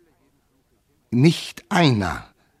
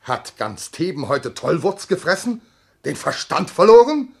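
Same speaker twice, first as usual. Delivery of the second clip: door quarrel shouting; 8 semitones higher than usual. Acted. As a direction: bellow through the locked door.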